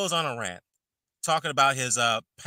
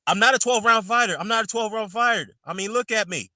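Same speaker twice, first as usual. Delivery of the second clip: imitating Joshua; 7 semitones higher than usual. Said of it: "he goes on to say".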